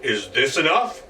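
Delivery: loud gloating goblin chuckle; gloating laugh. Acted. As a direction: boast of his gold with a laugh. Goblin boasting of gold.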